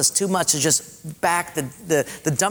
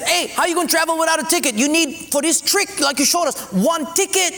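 puzzled questioning; 8 semitones higher than usual. Acted. Portuguese guy questions Japanese.

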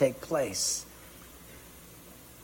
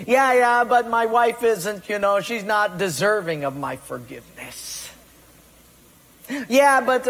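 mock excuses; 4 semitones higher than usual. Excuses voiced mockingly.

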